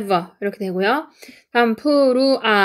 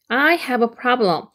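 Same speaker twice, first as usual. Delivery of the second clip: very slow, each word clear; slow model sentence; slow careful read; much slower than usual. Shown as a demonstration. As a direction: read it out slowly for learners. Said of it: "이렇게 하면은".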